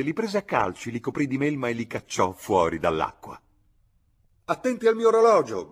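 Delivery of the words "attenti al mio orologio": high, loud cry of warning; high-pitched frantic yell; alarmed shout. A narrator's reading. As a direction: shout it out in a panic, pitch shooting up. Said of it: "gridò il signor Bibb".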